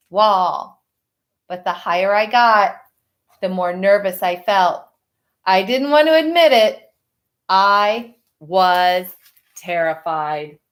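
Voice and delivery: put-on reading a picture book to children; story narration. A narrator's reading. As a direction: tell it gently to the class. Teacher reads picture book aloud.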